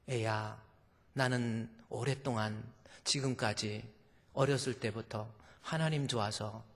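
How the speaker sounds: quietly, eyes closed; calm mother. Acted. Mother answering her daughter, soft and calm.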